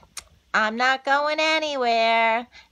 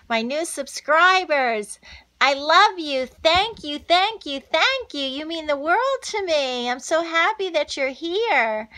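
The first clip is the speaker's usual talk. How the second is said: higher, louder, gushing thank-yous; excited thanks; 4 semitones higher, 3 dB louder than usual. Real, not acted. Thanking her new subscribers, higher and louder gushing thanks. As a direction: pour out thanks, climbing higher each time.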